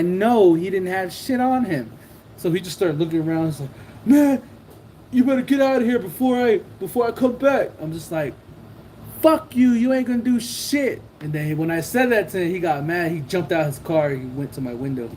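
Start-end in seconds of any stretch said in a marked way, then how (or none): 4.0-7.7 retold angry threat. Retold rival threatening him. 9.2-11.0 retold defiant taunt. Retold defiant reply in quarrel.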